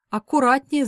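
причитает, выше и громче; всплеснуть громким причитанием; запричитала. Acted. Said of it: "запричитала женщина". (прохожая женщина громко причитает)

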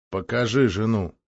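ordinary delivery

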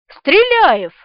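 eager guess. A narrator's reading. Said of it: "немедленно предположил лейтенант".

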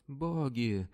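high wailing cry of terror; terrified wail. A narrator's reading. Slave wails in terror at the Venetian's feet. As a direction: howl it out in panic. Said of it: "выл он".

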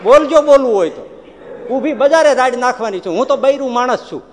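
loud high challenge to the Lord; a bold woman threatening to shout in the market; defiant shout. Acted. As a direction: dare him, at full voice.

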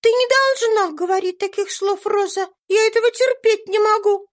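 put-on high, loud child's scolding; a little girl forbidding the maid such words; indignant little girl. A narrator's reading. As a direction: scold the maid like a small lady. Eva scolds Rosa.

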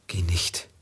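raunend zitiert; flüstere die Warnung unheimlich; geflüsterte Warnung. Acted. Zitiert die Warnung des Bettlers. (geflüsterte Warnung des Bettlers)

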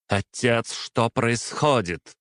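выше и медленно, в растерянности; растерянно спросить отца; тревожный вопрос. A narrator's reading. Принцесса в тревоге. (дочь растерянно спрашивает отца, голос выше)

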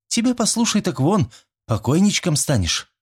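put-on high, scoffing girl's retort; mocking snort. A narrator's reading. Schoolgirl mocks Fedka's plan, scornfully. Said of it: "фыркнула Верещагина".

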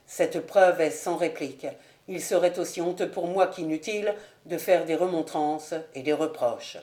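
lightly voiced, dignified renunciation; resigned suitor. Ravenswood resigned before the proof. (fiancé grave et résigné)

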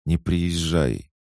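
slow, begging him not to come; slow pleading whisper-like request to stay away; sudden plea. Acted. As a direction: plead with her brother, drawn out. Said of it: "внезапно взмолилась она".

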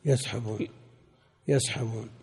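"يسحبون" with fatha, as yas-habun; quiet repeated yas-habun for "يسحبون"; correcting the vowel. Shown as a demonstration. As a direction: softly correct "يسحبون" to open on "ya". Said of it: "بفتح الياء".

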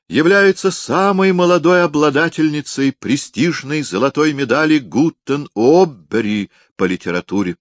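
high, ceremonious award announcement; pompous announcer. Acted. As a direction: praise her like a grand hostess. Septima announces the writer.

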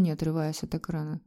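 ordinary delivery, nothing marked

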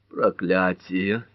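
slow, choked curse; strangled voice. Acted. Lola, shaken, curses in a strangled voice. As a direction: force the word out through a tight throat. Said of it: "сдавленным голосом произнесла Лола".

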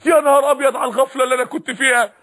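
stunned cry of realization; acted astonishment. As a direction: act out being caught unawares, awestruck. Acting out dawning awe before God.

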